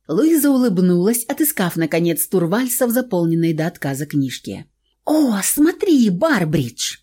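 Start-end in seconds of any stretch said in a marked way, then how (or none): 5.0-7.0 excited. Acted. Spotting a gentleman.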